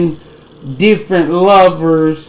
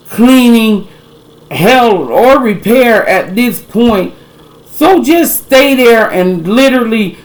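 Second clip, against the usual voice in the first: angry rant; 2 semitones higher than usual. Real, not acted. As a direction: scold her, voice raised. Ranting at the woman.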